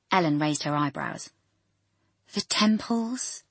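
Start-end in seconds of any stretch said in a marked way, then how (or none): 2.3-3.4 slow, sighing impatience; impatient sigh. Acted. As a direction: sigh it out, barely patient. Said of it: "sighed Doctor Lambourne".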